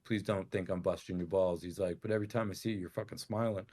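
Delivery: quietly imitated heart-to-heart; confiding. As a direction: drop the volume as the guard confides. Retold guard confiding respect.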